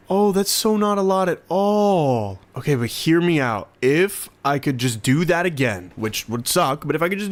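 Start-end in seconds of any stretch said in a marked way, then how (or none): 0.1-2.4 mock whine. Repeats it slower in mock voice.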